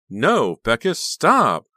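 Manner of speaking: high, loud terrified scream; frightened scream. A narrator's reading. Honey screaming as Becca raises the knife. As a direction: scream for her to stop. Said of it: "frightened cry of protest".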